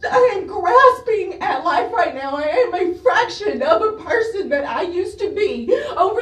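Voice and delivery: choked, tearful confession; holding herself together through sobs; crying. Real, not acted. Mother describing her collapse.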